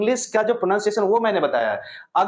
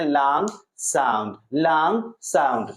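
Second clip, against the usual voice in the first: drawn out long; 4 semitones lower, slower than usual. Shown as a demonstration. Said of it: "ये time ज्यादा लेता है".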